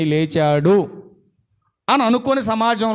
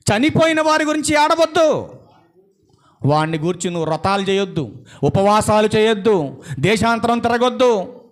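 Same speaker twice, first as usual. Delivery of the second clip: forceful preaching; 5 semitones higher, 3 dB louder than usual. Real, not acted. Preacher telling congregation not to weep for the dead, forceful preaching. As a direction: press each command on the congregation.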